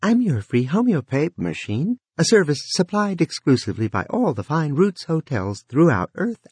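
high, tinkling machine voice; a cheerful vending machine talking; mechanical voice. Acted. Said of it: "a tinkling mechanical voice called".

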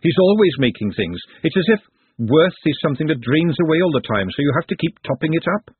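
lightly voiced earnest cook; forthright cook, earnest. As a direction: explain earnestly in his defence. Glenda defends Nutt.

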